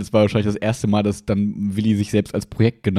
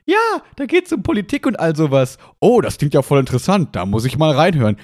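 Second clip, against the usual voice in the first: chipper 1950s ad; 4 semitones higher than usual. Acted. Acted ad dialogue skit.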